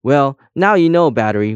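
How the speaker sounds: high, loud opening that drops away; despairing outburst, lightly acted; wailing. A narrator's reading. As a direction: lament it with a mild wail. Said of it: "wailed Colm".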